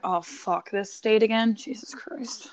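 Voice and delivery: weary exasperation. Acted. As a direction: sink into resigned disgust. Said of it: "I'm like".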